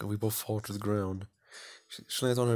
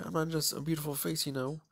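put-on higher, proud girl bragging; proud schoolgirl; 6 semitones higher than usual. Popular girl lecturing her classmate, higher and proud. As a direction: puff yourself up as the popular girl. Isabella insisting she is more.

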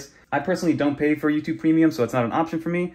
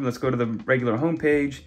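normal talking voice

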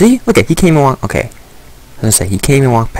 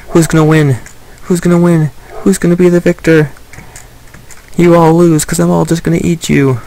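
mock race cheer; 7 semitones higher than usual. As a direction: hype the pigs up like a race announcer, then gloat. Cheering on racing pigs.

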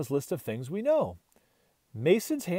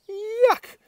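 disgusted; 5 dB louder than usual. A narrator's reading. Dog tastes stuffing.

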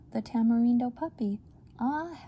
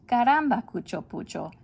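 loud, higher burst of caramba; frustrated exclamation; 3 semitones higher, 5 dB louder than usual. Acted. Mother fed up with her sons, exclaiming loudly. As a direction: blurt it out fed up.

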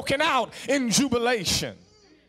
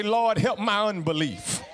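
pleading prayer. Retold or imitated. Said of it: "you got to say".

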